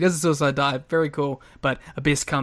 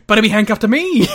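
louder, gleeful villain reveal; laughing mock promo; 4 semitones higher, 8 dB louder, faster than usual. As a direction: deliver the twist through a laugh. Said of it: "And then he goes".

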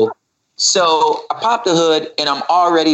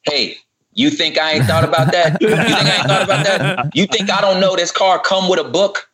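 half-laughing, higher comeback; laughing rant; 4 semitones higher than usual. Real, not acted. Host answers Twitter critics, laughing as he rants. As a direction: fire back at critics through laughter.

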